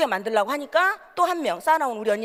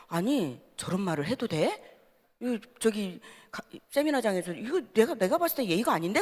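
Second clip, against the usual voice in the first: hushed aside; 2 semitones lower, 6 dB quieter than usual. Retold or imitated. Asking neighbour quietly during seminar.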